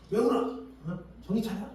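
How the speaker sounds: high-pitched scolding parent; acted scolding. Unskilled parent to crying child, acted scolding. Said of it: "그러면서 막 혼내고".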